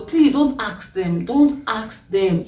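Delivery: slow, pleading insistence; earnest plea. Real, not acted. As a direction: beg them to stop asking, slowly. Pleading with the audience.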